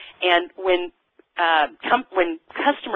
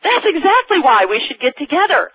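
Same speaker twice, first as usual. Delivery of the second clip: retold reply; 9 semitones higher, 5 dB louder than usual. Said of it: "And I said".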